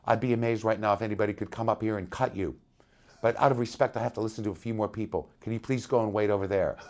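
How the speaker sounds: quick, understated deadpan retelling; imitating a deadpan bandleader. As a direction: deliver it dryly and evenly, without reaction. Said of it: "he looked at me very deadpan".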